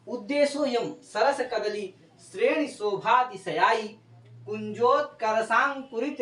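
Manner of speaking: slow, measured Sanskrit recitation; verse recitation. Real, not acted. Teacher reciting the example verse on Narmada's bank, slow recitation. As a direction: draw out each long syllable of the verse.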